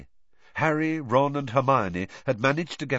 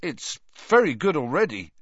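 strangled voice; 6 semitones higher than usual. Acted. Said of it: "in a strangled sort of voice".

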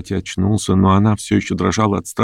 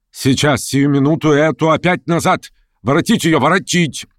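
высокий настойчивый приказ вернуть; требуй немедленно, высоким голосом; взволнованный приказ; 9 semitones higher than usual. A narrator's reading. В панике приказывает вернуть женщину. (взволнованно приказывая)

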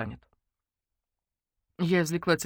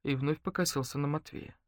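usual speaking voice

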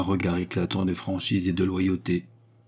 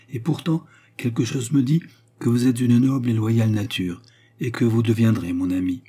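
lightly voiced woman, higher pitched; persuasive Baccarat; 3 semitones higher, 4 dB louder than usual. Baccarat tells the count he will be her friend, persuasive. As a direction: lift it with hopeful conviction.

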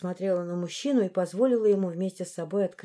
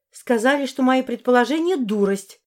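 louder, higher accusation; indignant; 4 semitones higher, 5 dB louder than usual. Acted. Heroine accuses Morris, loud and indignant. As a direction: fling the accusation.

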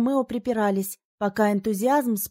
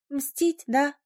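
eager anticipation; 5 semitones higher than usual. A narrator's reading. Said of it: "предвкушающе уточнила подруга".

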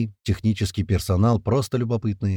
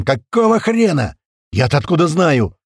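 high, loud, exasperated retort; squealing radio voice; 6 semitones higher, 7 dB louder than usual. A narrator's reading. Gera over the radio to the commander, squealing. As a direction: yell back in a high panicky voice. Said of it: "заверещала рация".

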